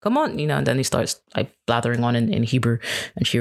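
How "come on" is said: high-pitched imitated yelling, no real volume; mock background shout. Father calling from the background to stepsister on phone, mock shouting. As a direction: imitate someone calling out urgently from across the room. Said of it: "he's shouting in the background going".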